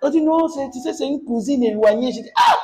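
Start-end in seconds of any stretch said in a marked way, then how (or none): 2.3-2.5 high laughing cry of surprise; mock astonishment; shocked ah. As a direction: gasp it out in amused disbelief. Shocked at mourners at funeral.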